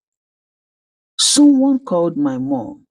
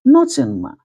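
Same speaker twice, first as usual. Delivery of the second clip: tearful; 9 semitones higher than usual. A narrator's reading. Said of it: "I felt tears sting my eyes".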